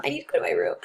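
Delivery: bizarre patient voice. Retold or imitated. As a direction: drop into a strange deep voice. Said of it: "Or, um".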